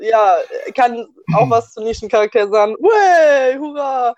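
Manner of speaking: talking with food in mouth; words round a bite; chewing while talking. Real, not acted. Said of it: "Und ich esse gerade".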